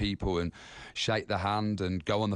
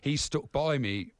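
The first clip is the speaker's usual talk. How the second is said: getting emotional; 5 semitones higher than usual. Real, not acted. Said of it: "I'm getting emotional now".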